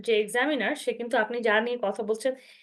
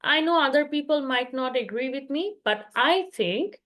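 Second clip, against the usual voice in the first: slow model opinion; much slower than usual. Shown as a demonstration. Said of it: "আপনি সেখানে বলতে পারেন".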